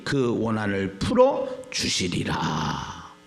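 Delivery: steady Bible reading, slowing at the close; scripture reading. Acted. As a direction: read it out formally, stretching the final phrase. Reads scripture aloud to congregation.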